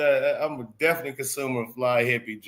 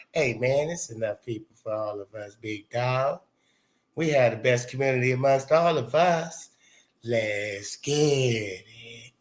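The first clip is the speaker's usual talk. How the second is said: Fly Hippie; 2 semitones lower than usual. Retold or imitated. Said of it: "you see how go on Fly Hippie".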